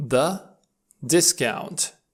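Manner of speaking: "discount" said slowly and clearly, stress on "dis"; pronunciation demo of discount. Shown as a demonstration. Teacher modelling "discount" for Romanian learners, careful and clear. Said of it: "mai înainte am spus că se pronunță".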